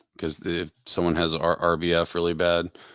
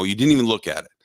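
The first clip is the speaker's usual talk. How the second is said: mock angry kid; 4 semitones higher, 5 dB louder than usual. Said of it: "he got angry with my wife".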